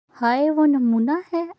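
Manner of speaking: shocked. Acted. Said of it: "Anshara सदमे से बोली".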